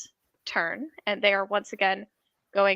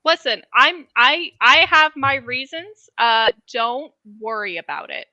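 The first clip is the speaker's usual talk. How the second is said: louder evasive character voice; tiefling voice; 6 dB louder than usual. Acted. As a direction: voice the tiefling dodging the question. GM voicing the tiefling.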